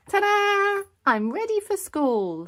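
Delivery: high, loud and thrilled showing off; excited ta-da. Acted. Little pig proudly showing her parents a costume, high and loud. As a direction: burst in with a big reveal.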